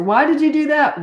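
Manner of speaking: put-on high, loud childish challenge; whiny kid demand. Child confronting parent, high loud whining demand.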